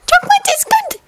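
very high squeaky elf voice; Dobby the house-elf. Acted. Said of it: "the little elf told Severus".

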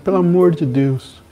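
high, pleading panic; desperate friend. Retold or imitated. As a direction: plead like someone who just did something terrible. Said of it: "ele liga desesperado". (amigo desesperado no telefone, em pânico)

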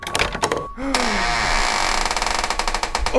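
long drawn gasp of fright; startled gasp. Real, not acted. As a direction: gasp in shock. Startled by the game.

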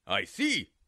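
low, sly coyote voice; a hungry coyote playing innocent; deep sly coyote.

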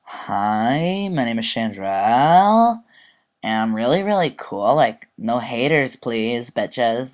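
slow, lightly voiced snooty girl; mild mock diva introduction; imitating a classmate. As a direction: drawl it like a stuck-up classmate. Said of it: "she talks like this".

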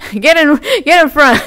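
shouted through laughter, pitch up; loud laughing shout. Real, not acted. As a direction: yell it while cracking up. Urging teammates, laughing loudly.

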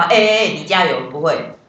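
a lightly hammed-up cheer to an object; teacher jokes about cheering up an object; mock pep talk. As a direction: pretend to cheer on a thing, half joking. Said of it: "你不会帮一个家暴".

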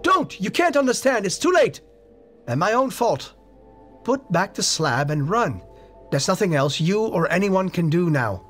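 very high, loud screaming; shrieking in utter despair. A narrator's reading. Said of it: "changed to a scream of utter despair".

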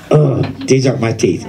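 numb mouth, slightly slurred; numb from the dentist. Real, not acted. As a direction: talk through a numb mouth. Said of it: "when my teeth are numb".

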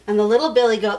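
usual speaking voice

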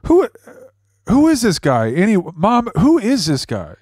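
high-pitched, exasperated questioning; agitated demand. Real, not acted. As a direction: demand an answer from mom, pitch jumping up. Son confronts mom about caller.

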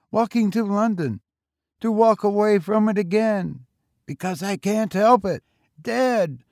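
put-on high boy's voice, rising in urgency; hoarse, impassioned boy. A narrator's reading. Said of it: "the boy said hoarsely".

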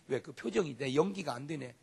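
ordinary talk, nothing marked

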